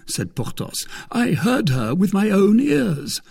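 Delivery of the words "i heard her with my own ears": high, loud insistence; Porthos's character voice. Acted. Porthos swears he heard Milady, high and loud. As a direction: insist in a raised musketeer voice.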